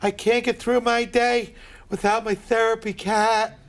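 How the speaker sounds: slow, drawn-out mocking of the cat lady; mocking cat owner. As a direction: stretch it out like a needy passenger.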